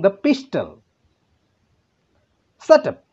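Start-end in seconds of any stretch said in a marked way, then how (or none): 2.6-3.0 a much higher, louder shout at full force. Shown as a demonstration. Teacher rereads the kidnapper's line with a real shout. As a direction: bark it out as the kidnapper would. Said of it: "shouted the kidnapper".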